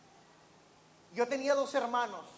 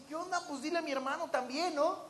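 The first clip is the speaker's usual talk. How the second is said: put-on childish complaint; 3 semitones higher, 4 dB quieter, faster than usual. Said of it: "Y yo decía".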